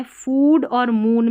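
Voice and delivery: फूड and मून with a drawn-out long oo; long oo sound. Shown as a demonstration. English teacher showing learners the double-o, long oo. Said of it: "बड़े ऊ की जैसे".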